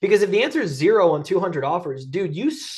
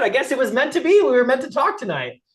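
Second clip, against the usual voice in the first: playful fate act; 7 semitones higher, 4 dB louder than usual. Retold or imitated. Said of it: "And I'm like".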